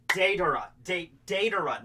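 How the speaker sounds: Deidara stressed on the first syllable, DAY-duh-ruh; correct pronunciation. Shown as a demonstration. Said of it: "he's pronouncing it wrong".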